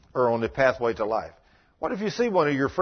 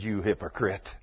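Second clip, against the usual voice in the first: accusing; 7 semitones lower, 6 dB quieter than usual. Retold or imitated. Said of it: "I just laid the finger on him".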